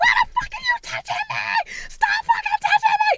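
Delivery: put-on shrill, frantic, freaked-out shriek, pitched way up. Retelling slapping her sister, imitating screaming at her: retelling a scream. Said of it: "And I'm screaming at her".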